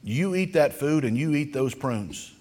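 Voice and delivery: stern mother. Retold or imitated. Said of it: "And she said".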